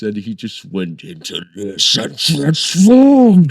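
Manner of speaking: loud, high, thrilled retelling; bursting with excitement about the moment; gushing loudly about a big reveal. Real, not acted.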